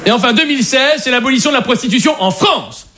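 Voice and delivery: measured, declarative history-report reading; reading out an exposé. Acted. Comedian presents women in history to the group, reading aloud. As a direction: read it out like a prepared presentation. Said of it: "on m'a demandé de lire un exposé".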